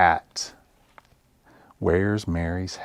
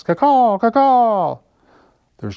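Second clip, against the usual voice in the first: high, loud cawing crow; 14 semitones higher, 8 dB louder, slower than usual. Acted. The crow answers the bear with a loud high caw.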